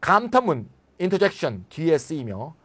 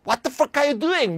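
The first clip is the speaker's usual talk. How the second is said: high, slow, furious question; angry outburst; 8 semitones higher, 3 dB louder, much slower than usual. Shown as a demonstration. Teacher mimicking angry real-life English, high and slow. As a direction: snap it in outrage. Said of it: "아, 씨발 무슨 소리".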